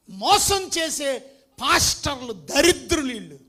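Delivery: loud, slow, thundering denunciation; fiery preacher condemning frauds; preaching at full force. Acted. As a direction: hammer each phrase out to the church. Denouncing false apostles.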